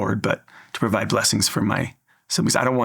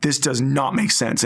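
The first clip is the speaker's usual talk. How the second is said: mock yell, slow and higher without much volume; retold yelling; 4 semitones higher, slower than usual. Missionary venting after the phone call, retold yell held back. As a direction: spell out each word in remembered anger. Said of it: "I'm yelling".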